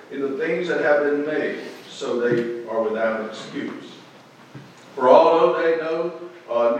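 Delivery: measured, emphatic Bible reading from the pulpit; Scripture reading. Acted. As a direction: read the verses out to a congregation, phrase by phrase. Reads Scripture to congregation.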